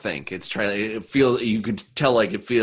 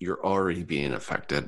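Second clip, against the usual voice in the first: words said through a heavy sigh; 4 semitones lower, 5 dB quieter than usual. Voicing a Yuan-ti who stops a player: sighing heavily. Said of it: "sighs heavily and says".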